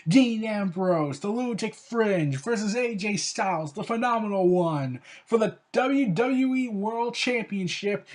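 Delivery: slow, drawn-out main-event build-up; a vlogger hyping the main event card; announcer hype. Acted.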